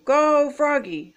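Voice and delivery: high, stretched sideline cheer; hollered cheer. A narrator's reading. Frogalina cheers Froggy at bat, hollering. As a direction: cheer the batter on. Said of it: "hollered Frogli".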